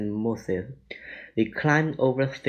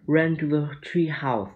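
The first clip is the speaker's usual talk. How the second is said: urgent cry; 4 semitones higher than usual. Acted. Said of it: "cried Annie".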